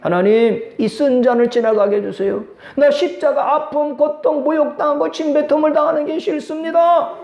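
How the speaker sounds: pleading prayer that climbs in pitch; Jesus. Acted. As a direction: plead with God, building to a high-pitched protest. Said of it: "무슨 기도를 하셨어요?".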